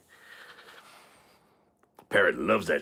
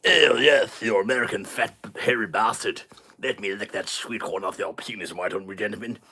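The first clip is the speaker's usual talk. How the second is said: mock British woman; 3 semitones higher than usual. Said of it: "She's British, man".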